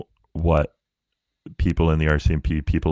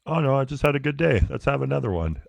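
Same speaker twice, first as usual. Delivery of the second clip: much higher mock-innocent voice; playful acted excuse; 9 semitones higher than usual. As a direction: lift it high, talking yourself into a treat. Acts out excuse for a treat.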